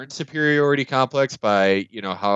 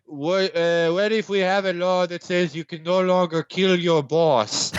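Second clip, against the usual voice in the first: Macron impression; 5 semitones higher than usual. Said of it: "Macron will be like".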